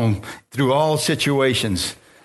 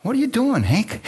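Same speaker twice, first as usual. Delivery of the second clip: God's voice; 6 semitones higher than usual. Retold or imitated. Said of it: "he tells me right away".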